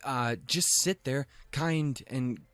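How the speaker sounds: high, rushed fake apology; high, hammed-up defensive rambling; mock defensive excuse. Defending himself in retold exchange.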